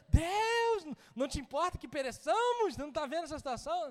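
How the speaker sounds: high, pleading cry to God; desperate plea. Retold or imitated. Believers at home when things heat up: high desperate plea. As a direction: throw the complaint up to heaven, fast at the end.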